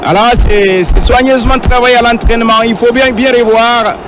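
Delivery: high, lively replay analysis; excited sports commentary. Real, not acted. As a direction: still buzzing after the goal. (analyse du ralenti, voix haute et enjouée)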